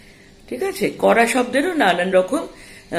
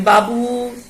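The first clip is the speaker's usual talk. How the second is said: mother calling; 4 semitones higher, much slower than usual. Retold or imitated. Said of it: "মা হয়তো তোমার নাম ধরে ডাকলেন".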